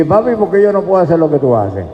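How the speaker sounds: preacher mimicking a questioning kid; imitated child. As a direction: lightly voice a child asking Dad. Voices a child questioning father.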